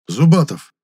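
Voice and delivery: sharp loud call of a name; startled loud exclamation; exclaiming. A narrator's reading. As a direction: burst out in shock. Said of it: "воскликнул Гудков".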